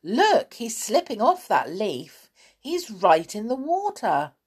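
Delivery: startled, lifted voice; sudden alarm. A narrator's reading. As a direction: cry out a warning. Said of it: "said the bear suddenly".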